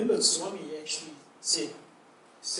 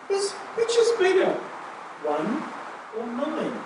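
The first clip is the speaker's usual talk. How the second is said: higher, louder teasing question; playful quiz; 11 semitones higher, 7 dB louder than usual. Retold or imitated. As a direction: tease the listener with the riddle. Playful Swami quizzing them.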